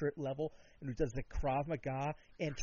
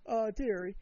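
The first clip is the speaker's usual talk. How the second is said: higher-pitched mock royal address; the Queen; 7 semitones higher than usual. Monarch addressing a would-be nanny, mock regal. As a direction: put on a bad British regal voice. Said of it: "if the Queen was like".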